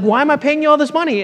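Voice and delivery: high, loud, fast exasperated outburst; Balak, really frustrated. Retold or imitated. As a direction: act out an indignant king demanding answers. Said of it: "Balak gets really frustrated".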